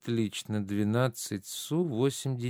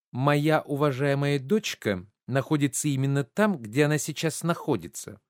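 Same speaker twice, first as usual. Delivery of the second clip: pointed, higher-pitched rebuff; tart retort; 4 semitones higher than usual. Acted. Mother fending off a guest asking about her daughter, tart retort. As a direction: give a huffy non-answer.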